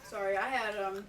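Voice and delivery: talking around a drink; words round a mouthful of drink; mouth full. Real, not acted. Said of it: "beverage in my mouth".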